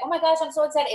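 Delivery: bright high gush; excited. Shown as a demonstration. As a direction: sound thrilled to reach out. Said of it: "It's all about energy".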